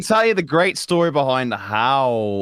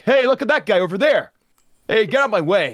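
mock angry crowd; 12 semitones higher than usual. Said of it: "the odd line like".

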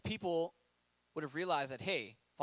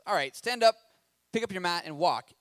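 loud, firm command to rise; 6 dB louder than usual. Acted. Jesus commanding the sick man, loud and firm. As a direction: tell him firmly to get up and go.

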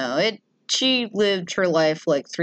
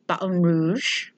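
mock French; slower than usual. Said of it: "I can do some French".

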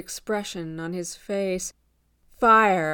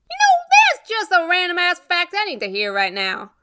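high, loud sarcastic retort; raised, irritated voice; exasperated; 10 semitones higher, 6 dB louder than usual. Acted. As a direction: snap at an ill-timed remark, still fuming. Rose snaps at friend's remark, acted.

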